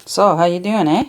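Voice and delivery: lightly hammed-up Canadian accent; playful Canadian accent, ending on a tagged-on "eh?". Shown as a demonstration. Host jokingly shows viewers how Canadians talk, light Canadian accent. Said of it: "Our accent is mostly just".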